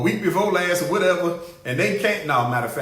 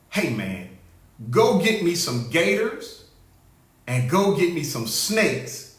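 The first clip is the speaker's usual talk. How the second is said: mock president giving orders; 4 semitones lower than usual. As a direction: lower and slow, hammed-up boss ordering gators.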